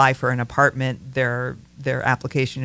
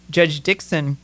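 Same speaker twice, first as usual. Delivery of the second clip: smiling; 5 dB louder than usual. Real, not acted. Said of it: "You, you're smiling as you say this".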